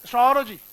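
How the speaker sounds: एस्ट्रोलॉजी with a full, loud ए, mocking students; mock wrong version. Shown as a demonstration. Teacher imitating how students say astrology. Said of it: "आप बोलते हो एस्ट्रोलॉजी".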